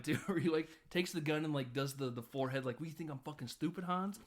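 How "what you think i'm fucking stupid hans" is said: quoting McClane. Retold or imitated. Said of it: "Always love that line".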